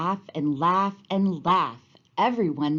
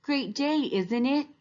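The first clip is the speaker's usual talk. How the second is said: cheerful greeting; 8 semitones higher, slower than usual. Retold or imitated. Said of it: "we can all say".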